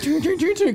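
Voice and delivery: imitated radio static. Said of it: "the static's going".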